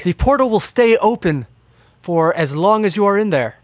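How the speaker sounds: a hint of an eager inventor explaining his machine; eccentric inventor. Inventor answers how they get back, lightly eccentric voice. Game master voices Doc.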